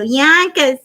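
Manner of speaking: lightly sung-out "Yonkers", repeated like a ringtone; mock ringtone. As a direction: call out "Yonkers" as a joke ringtone. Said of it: "it's gonna go".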